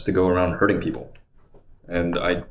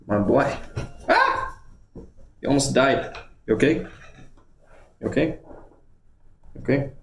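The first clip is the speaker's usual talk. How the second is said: much higher cooing pet voice; 7 semitones higher than usual. Real, not acted. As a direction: coo over the dog that almost got hurt. Fussing over the dog.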